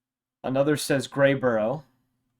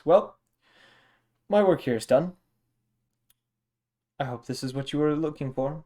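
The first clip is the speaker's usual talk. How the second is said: Dragonborn farewell; 4 semitones higher, 3 dB louder than usual. Acted. Golden Dragonborn takes leave.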